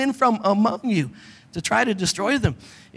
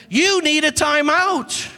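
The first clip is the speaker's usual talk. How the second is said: slow firm timeout; 6 semitones higher, much slower than usual. Retold or imitated. Repeated timeout, slower.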